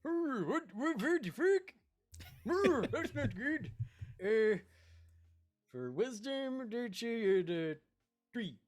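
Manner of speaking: high, swooping character voice; startled, in a high put-on voice; startled Seahawk. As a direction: draw the words out high and rattled.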